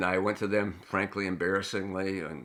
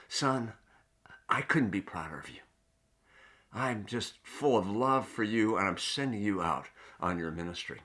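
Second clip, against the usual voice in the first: tender father. Retold or imitated. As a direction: murmur it gently, like a proud dad. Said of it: "looking him in the eye and saying".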